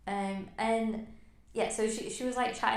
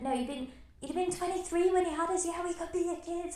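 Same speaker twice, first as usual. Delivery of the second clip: higher mock Australian voice, lightly done; Aussie accent; 9 semitones higher, 4 dB louder than usual. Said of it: "that's my Aussie accent".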